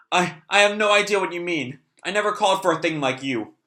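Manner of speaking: a hint of a scared child; frightened boy denying. C L denies summoning the demon.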